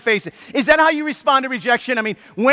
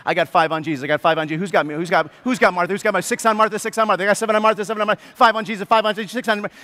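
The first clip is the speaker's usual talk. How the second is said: bookie taking bets; 3 semitones lower, much faster than usual. Pretend. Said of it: "just taking wagers".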